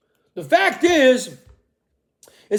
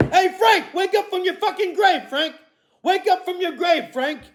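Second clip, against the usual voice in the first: mock shout to the grave; 5 semitones higher than usual. Calling out to dead Frank Church.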